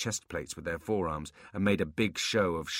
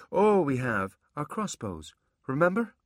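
flustered demon voice; 9 semitones higher, 5 dB louder than usual. Acted. Abbott backpedals.

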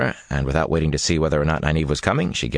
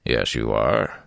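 calm; 5 semitones lower, slower than usual. A narrator's reading. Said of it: "he replied calmly".

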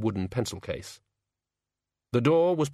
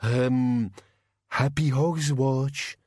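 slow monster greeting, pitched up at the end; drawn-out creature farewell; awkward bogeyman; 3 semitones higher, much slower than usual. Acted. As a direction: offer it hesitantly as a bogeyman. Bogeyman takes its leave.

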